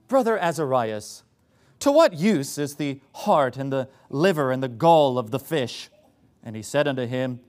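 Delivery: pseudo-intellectual British scripture reading; sarcastically grand British-accented reading; mock British accent. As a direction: read it pompously in a put-on British accent. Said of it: "speaking in kind of a British accent".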